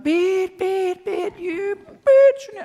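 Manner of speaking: hammed-up furious driver yelling at the car ahead; road rage yell. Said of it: "I start".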